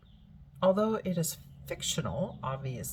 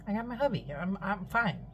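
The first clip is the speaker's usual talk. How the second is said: daughter's voice; 5 semitones higher than usual. Retold or imitated. Daughter shrugging off the warning.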